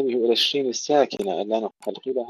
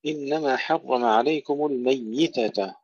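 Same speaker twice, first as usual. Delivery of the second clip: slow, drawn-out chanted recitation; Quran recitation; 3 semitones higher, slower than usual. Acted. Teacher recites the verse to students, slow tajweed chant.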